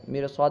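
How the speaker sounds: "میر و صاد" with a heavy, full r. Shown as a demonstration. Teacher contrasts with rijalun, "میر و صاد" with heavy ra. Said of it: "جس طرح ہم را کو پڑھ رہے ہیں".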